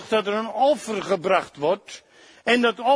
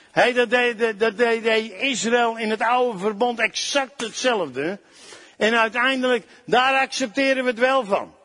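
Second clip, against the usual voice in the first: raised, driving sermon voice, pushing each point; fervent preaching. Acted. Preacher urging his congregation to respect others, fervent preaching.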